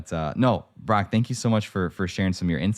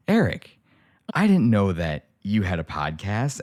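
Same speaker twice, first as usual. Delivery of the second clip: grandma's surprise; slower than usual. Retold or imitated. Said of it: "and she goes".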